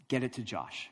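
imitating a coach's earnest instruction; understated serious coach; really serious. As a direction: say it as a sober order. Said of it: "he's really serious".

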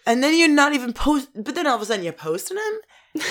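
exasperated scolding of a celebrity; pissed-off rant. Real, not acted. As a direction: tell her off, thoroughly fed up. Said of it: "so pissed right now".

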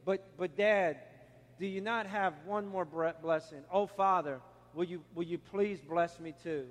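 subdued, halting retold plea; pleading. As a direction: plead softly with a father, stumbling over words. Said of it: "And Esau pleaded".

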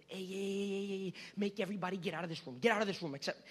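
hurried, distraught order to clear the room; crying, freaking out. Acted. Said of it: "He's crying. He's scared. And he says".

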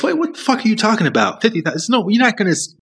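the ego mocking the dream job in disbelief; panicked ego. Ego scolding you for quitting the big job, scoffing and panicked. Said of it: "And so the ego says".

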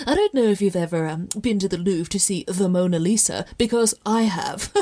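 self-mocking snob, repeating a boast; tongue-in-cheek snootiness; mock snobbish. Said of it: "that might have been the snobbiest thing".

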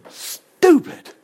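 high, cracking cry of stupid; anguished cry. Real, not acted. Preacher crying out at the church's foolish custom, high and strained. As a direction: wail the word in disgust. Second take, cried out high.

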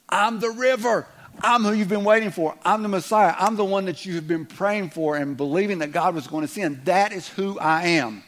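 high, loud proclamation; proclaiming. Retold or imitated. Jesus proclaims himself to the festival crowd, loud and high. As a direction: announce it to the crowd with force.

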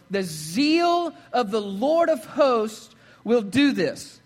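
slow, measured Bible reading to the church; scripture reading. Acted. Pastor reading Isaiah aloud to the congregation, slow and solemn. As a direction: read it out slowly and solemnly.

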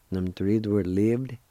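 usual speaking voice

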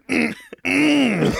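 imitated dad grunts; two wordless grunts, like dads in their chairs; dad noises. Imitating a Family Guy circle of dudes in chairs, dad noises. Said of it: "doing, like, the dad noises".

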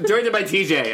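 laughing through a mock credit. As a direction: giggle out the credit. Joking movie credit.

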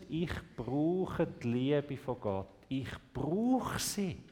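slow, soft and sincere; humble confession. Acted. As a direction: admit it quietly like a child. Childlike confession of need.

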